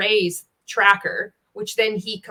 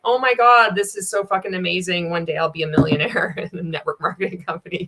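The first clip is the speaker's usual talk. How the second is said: mock excitement. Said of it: "And we're like".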